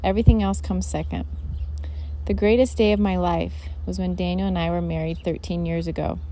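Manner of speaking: flat, emotionless reading; monotone. Real, not acted. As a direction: read it like a heartless script. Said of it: "She's speaking in a monotone".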